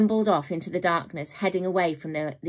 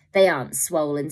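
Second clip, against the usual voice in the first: sneering; 4 dB louder than usual. Acted. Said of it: "sneered the woman".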